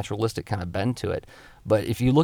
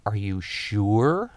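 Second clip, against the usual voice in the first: "sure" drawn out long with a sharp rise; emphatic last word; much slower than usual. Shown as a demonstration. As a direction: stretch out "sure" slowly, swooping up into a question. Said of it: "extra emphasis on the emphatic word".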